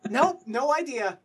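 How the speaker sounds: high, loud, drawn-out nope; loud high-pitched cluelessness; blunt comic denial. Acted. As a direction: cheerfully admit total ignorance at full volume. Comic blunt answer after failed check.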